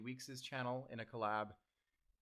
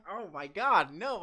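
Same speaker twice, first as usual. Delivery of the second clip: higher and louder startled laugh-gasp; real flustered surprise, louder; surprised exclamation; 8 semitones higher, 12 dB louder than usual. Real, not acted. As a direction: react as if caught out by the question. Caught off guard by question.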